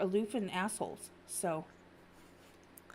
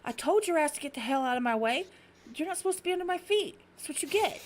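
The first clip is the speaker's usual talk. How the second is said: mock yelling; 5 semitones higher, 3 dB louder than usual. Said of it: "Start yelling at the cat".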